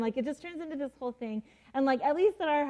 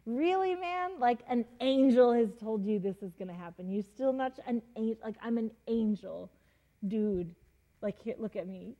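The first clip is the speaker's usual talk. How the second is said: sassy exasperation. Retold or imitated. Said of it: "sets a boundary and says".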